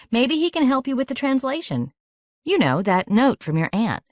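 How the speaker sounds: hint of a breezy older girl; lightly voiced Andromeda. A narrator's reading. Andromeda nudging Miranda about Kevin, lightly voiced.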